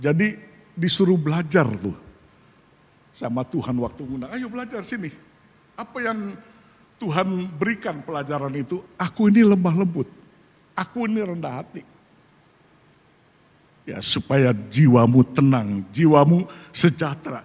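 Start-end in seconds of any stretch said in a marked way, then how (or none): 4.3-11.8 soft, higher inviting voice; gentle divine invitation. Acted. Preacher voices the Lord inviting the listener, soft and higher. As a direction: coax them in like a gentle Lord.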